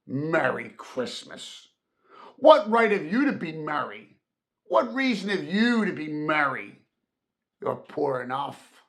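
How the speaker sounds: mock the greeting, then turn on him; contemptuous sneer. Scrooge sneering at his poor nephew's cheer, scornful. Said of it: "said Scrooge".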